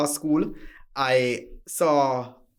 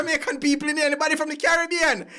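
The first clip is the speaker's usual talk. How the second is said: booming Jamaican greeting; 11 semitones higher, faster than usual. Retold or imitated. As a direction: greet the jury in full Jamaican style. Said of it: "you hear me coming".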